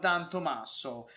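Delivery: wine lover's lapse into an Italian accent; Italian-accented flourish on the name. Real, not acted. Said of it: "I get this Italian accent".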